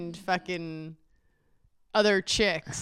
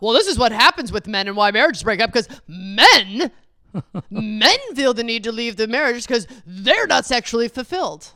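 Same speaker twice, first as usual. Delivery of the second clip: preachy know-it-all tone, faster; lecturing husband; 2 semitones higher, 7 dB louder than usual. Retold or imitated. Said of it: "hands on high hips about".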